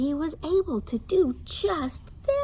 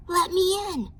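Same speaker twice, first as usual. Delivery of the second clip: higher louder wolf call; wolf at the door; 9 semitones higher, 6 dB louder than usual. Acted. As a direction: demand at the door. Wolf voiced.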